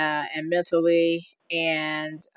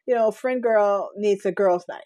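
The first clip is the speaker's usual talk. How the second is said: mimicking daughter; 4 semitones higher, 4 dB louder than usual. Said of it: "my daughter texts me and says".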